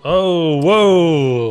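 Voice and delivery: surprised. Real, not acted. Shocked at gory scene.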